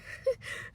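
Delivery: soft breathy chuckle; quiet laugh slipping out mid-story; short laugh. Real, not acted. Woman recounting insults about herself, soft chuckle.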